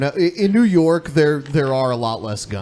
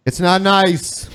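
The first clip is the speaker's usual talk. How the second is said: a hint of Trump, slow and higher; lightly mocking Trump's slow emphatic line; slow mock Trump echo; imitating Trump; 5 semitones higher, slower than usual. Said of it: "Diversity lottery sounds nice. It's not nice".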